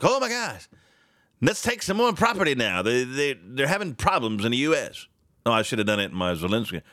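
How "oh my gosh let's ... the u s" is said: mock Putin. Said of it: "I don't think Putin's like".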